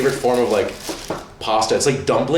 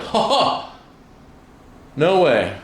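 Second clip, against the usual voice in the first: mock laugh; 7 semitones higher, much slower than usual. His reaction to the clip.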